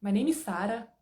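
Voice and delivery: put-on a light Scottish accent, rolling the R in Sarah; My name is Sarah in a mock Scottish accent. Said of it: "Vocês já ouviram um escocês falando inglês?".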